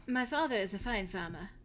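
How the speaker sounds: put-on lightly held German accent as Hilda; a hint of a German farm girl. Hilda tells the hero about her farm in a German accent. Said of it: "this accent".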